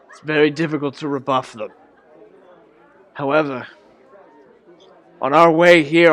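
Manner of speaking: put-on a weary old man recounting his journey; lightly voiced old man recounts his shipwreck; old man storyteller. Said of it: "It's like".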